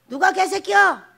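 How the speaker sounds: loud, high challenge; mock offended shout; acted indignant retort.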